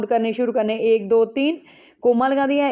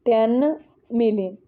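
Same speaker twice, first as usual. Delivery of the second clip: "टेन मिलियन" said slowly, each word drawn out; slow repeat. Shown as a demonstration.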